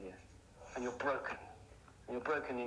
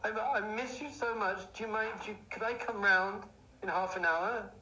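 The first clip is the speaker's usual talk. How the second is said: higher-pitched mock-crying ex-girlfriend; imitated tearful plea; 7 semitones higher than usual. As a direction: plead as if lightly tearful, pitched up. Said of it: "she's crying".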